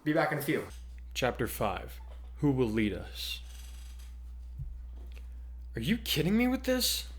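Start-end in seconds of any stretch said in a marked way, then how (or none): 1.1-3.4 steady storyteller narration with voiced characters; dramatic story reading. Host reading her fan fiction chapter to listeners, dramatic narration. 5.8-7.1 exasperated, pitched way up; fed-up groan at the reporters again; groaning complaint. Acted. Kurtai fed up with the press mob, higher exasperated groan. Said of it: "Kurtai groaned".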